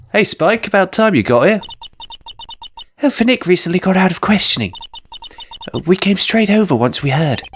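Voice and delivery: a lightly voiced sly fox greeting his pal; fox con man. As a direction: call out cheerfully like a sly fox.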